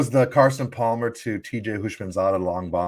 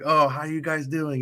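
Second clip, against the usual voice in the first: put-on Russian accent; 5 semitones higher than usual. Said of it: "with his little accent".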